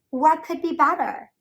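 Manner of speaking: high, loud, thrilled question; a delighted duck mother. A narrator's reading. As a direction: ask it as if nothing could top it. Missus Mallard delighted question.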